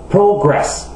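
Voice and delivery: "Progress" stressed on PRO; first-syllable stress. Shown as a demonstration. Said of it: "l'accent est normalement sur la première syllabe". (« Progress » accentué sur la première syllabe)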